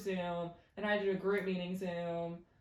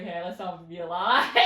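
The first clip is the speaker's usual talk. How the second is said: laughing; 6 dB louder than usual. Retold or imitated. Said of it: "I was like".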